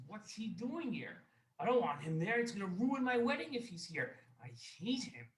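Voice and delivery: acted-out annoyance, pitch swooping up; indignant. Wealthy man complains to his servant about an enemy guest, indignant.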